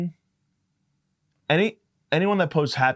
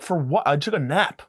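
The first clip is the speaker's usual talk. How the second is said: indignant protest; 5 semitones higher than usual. Retold or imitated. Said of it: "I'm like".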